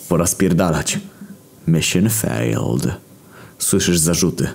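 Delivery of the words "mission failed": game announcer. Acted.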